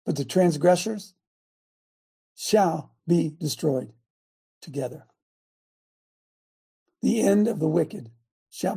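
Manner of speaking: measured Bible reading with long pauses; scripture reading. Acted. Coach reading scripture to the group, measured and emphatic. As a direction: read the verses out in deliberate, separated phrases.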